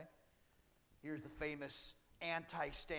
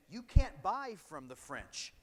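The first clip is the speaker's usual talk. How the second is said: loud, slow, forceful decree; teacher booming a mock royal trade ban; loud British command; 4 semitones higher, 12 dB louder, slower than usual. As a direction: bark it out slowly like a ruling power.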